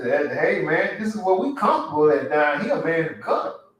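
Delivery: a mild mock of jealous homeboys pulling you back; mocking envious friends. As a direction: sneer like the folks who want you to stay down. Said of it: "they used to".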